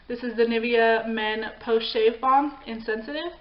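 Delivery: slow, polished product pitch; infomercial voice. Pretend. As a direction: read it like a TV ad. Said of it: "Why did I just go total, like, infomercial voice?".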